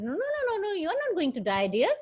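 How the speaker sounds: high, gentle "no, no" to calm her; reassuring no no no, pitched high; soothing doctor. Acted. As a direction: hush a dying patient kindly. Doctor soothing dying mother.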